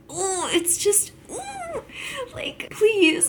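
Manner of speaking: high breathy pleading whisper. Real, not acted. Fan begging the show for a happy ending, whispering.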